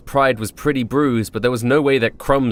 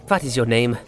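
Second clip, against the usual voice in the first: delicate tone. Acted. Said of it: "he asked in a delicate tone".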